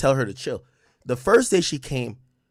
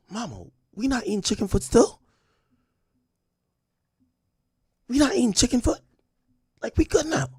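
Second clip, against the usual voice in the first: higher, pleading complaint; whiny protest; 11 semitones higher than usual. Retold or imitated. Son whining to mom about chicken foot, higher. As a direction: whine at mom about dinner. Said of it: "I'm like".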